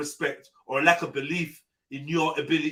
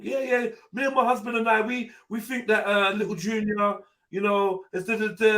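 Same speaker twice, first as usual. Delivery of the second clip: lightly acted parent, pitched up; parents' evening spokesperson; 5 semitones higher than usual. Partner speaking for the couple at parents' evening, lightly acted spokesperson. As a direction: play the talking parent at school, higher voice. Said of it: "if we go to a parents' evening".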